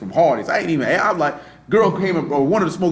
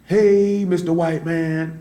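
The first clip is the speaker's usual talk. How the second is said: mock greeting; much slower than usual. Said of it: "He literally did, just like this here".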